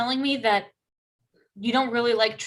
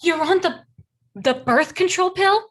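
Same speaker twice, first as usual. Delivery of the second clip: shocked; 5 semitones higher than usual. Acted. Friend shocked by the pill.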